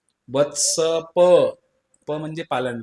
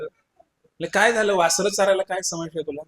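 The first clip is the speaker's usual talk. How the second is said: puzzled mother; 5 semitones higher than usual. Acted. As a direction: ask like a baffled mom. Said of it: "असं म्हणल्यानंतर".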